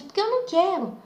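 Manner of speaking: high-pitched exasperated refusal, not shouted; retold irritated retort. Narrator repeating to listeners how she answered back, irritated. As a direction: re-enact a testy comeback. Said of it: "Quando eu respondi assim".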